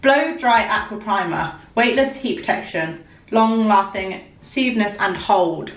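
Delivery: slowly sounding out each word; slow halting reading. Real, not acted. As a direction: read the label word by word, stumbling. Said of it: "I actually can't read stuff out".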